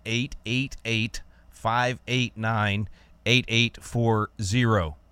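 phone number read slowly, digit by digit; slowed down. Shown as a demonstration. Radio host slowing down for callers, deliberately slow read. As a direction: spell out "eight eight eight" slowly so callers catch it. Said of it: "Rick slowed down for, like, twenty seconds".

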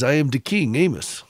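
imitated Ghanaian British accent; light take on a thick Ghanaian British accent. Guest recalls the tall man introducing himself, Ghanaian British accent. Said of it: "that thick Ghanaian British accent".

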